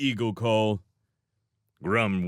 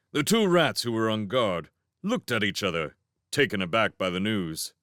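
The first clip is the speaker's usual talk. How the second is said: usual speaking voice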